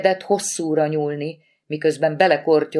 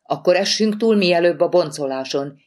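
perking up; 3 semitones higher than usual. Acted. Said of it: "élénkült fel Lori".

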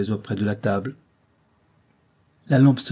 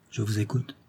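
softly spoken, much quieter; very low; 7 dB quieter than usual. Acted. Rose yielding to André, speaking very low. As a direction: say it under your breath, subdued. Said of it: "dit-elle très bas".

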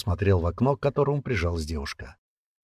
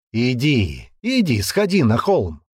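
slower, less heated dare; calmer urging; 3 semitones higher, 4 dB louder, slower than usual. Acted. Man repeating his dare to the girl, calmer urging. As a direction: repeat the dare with the heat easing. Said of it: "уже спокойнее повторил Славик".

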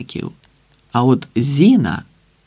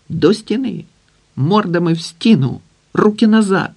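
barked orders; 6 semitones higher than usual. Acted. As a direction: bark orders at gunpoint. Макар orders guards at gunpoint. (гучні накази)

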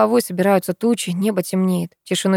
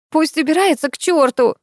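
angry yell; 8 semitones higher than usual. A narrator's reading. Girl yelling down from upstairs, furious shout. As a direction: spit it out in rage. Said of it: "раздаётся голос Люси сверху".

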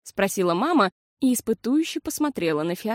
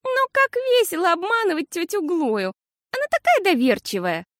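giggly; 11 semitones higher, 3 dB louder than usual. A narrator's reading. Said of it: "сказала Фиасоль и хихикнула".

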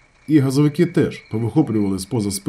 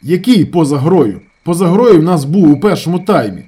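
angry shout; 5 semitones higher, 7 dB louder than usual. A narrator's reading. Ravzan shouts down the offside claim, angry. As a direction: argue furiously. Heated argument about offside.

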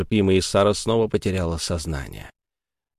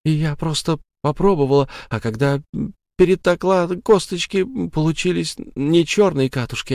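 higher, hurried self-defence; frightened excuses; 6 semitones higher than usual. Acted. Sara desperately justifies herself to the ghost. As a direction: talk fast to save yourself.

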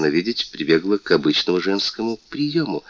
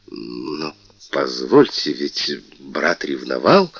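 медленно; 4 semitones lower, much slower than usual. Acted. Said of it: "перебил король".

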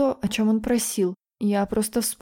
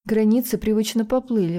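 plain reading voice

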